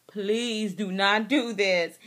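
slow, deliberate plea; pleading. Retold or imitated. Pregnant wife begging her husband not to leave, pleading. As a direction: spell out each word slowly, begging.

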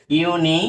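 "ইউনি" set apart as the first piece; broken into parts. Shown as a demonstration. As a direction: sound out "ইউনি" alone, as ইউ-নি. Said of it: "আমরা আগে ভেঙে নিই". ("ইউনি" আলাদা ভাগ করে)

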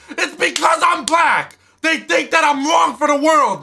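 slow, hammed-up crying shout; fake-sob the protest; mock wailing over being sorted into Slytherin. Real, not acted.

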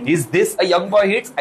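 very slow mocking old lady; teasing old lady. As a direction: drag it out, poking fun. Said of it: "देख के बोलती है". (धीमी मज़ाकिया बुज़ुर्ग आवाज़)

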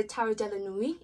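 light mock French accent on the deck name; a hint of a French accent. Shown as a demonstration. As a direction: say Tarot de la Nuit the French way, playfully. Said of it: "in my best French accent".

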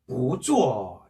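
"보" rising, "쪼" falling sharply in fourth tone; weak-strong tones on "보쪼"; second tone then fourth. Shown as a demonstration. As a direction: lift "보", then drop "쪼". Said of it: "이성으로 읽어준다 그랬죠".

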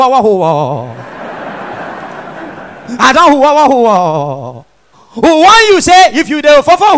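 hammed-up chronic stammer; comic stammerer arguing back through the blocks. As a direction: keep snagging on hooting "who" and dragged-out syllables. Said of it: "Now the second stammerer, now reply him".

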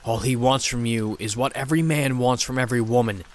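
a lightly voiced demon, hissing with contempt; a touch of a seething demon voice. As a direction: spit the words out at her like a jealous demon. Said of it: "The demon seethed".

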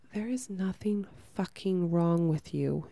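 whispered, gentle but firm. Real, not acted. Reassuring the women listening in a firm whisper. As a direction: lean in and whisper it slowly like a truth. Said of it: "I'm here to tell you very gently".

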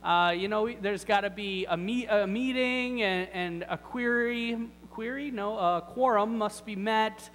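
self-important, lightly exasperated objector; mock protest. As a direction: explain the rules to someone who just doesn't get it. Acted lame man making excuses to Jesus.

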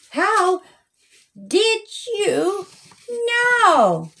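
put-on a child's wide-eyed how did you know; surprised question. A narrator's reading.

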